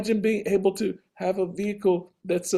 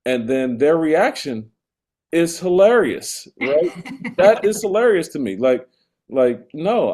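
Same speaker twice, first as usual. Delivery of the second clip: escalating comedy rant; 2 semitones higher, 7 dB louder than usual. Real, not acted. Escalating rant about Waymo riders.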